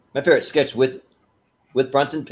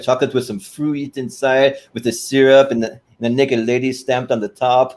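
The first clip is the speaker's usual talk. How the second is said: put-on slow, stretched foreign accent; Serge's accent; slower than usual. Serge describes the chocolates in the box, foreign accent. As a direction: imitate a foreign-accented host savoring each item. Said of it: "the way that he does the accent".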